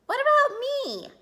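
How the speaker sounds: high, loud little-sister protest; indignant demand. A narrator's reading. Sister to mother about a new suit, indignant. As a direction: butt in, demanding your share.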